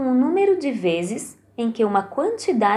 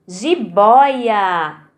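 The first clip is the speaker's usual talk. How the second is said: Jiboia. with boi louder; stress on BOI; 4 dB louder than usual. Shown as a demonstration. Teacher to pupils, Jiboia. with boi stressed. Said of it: "No boi".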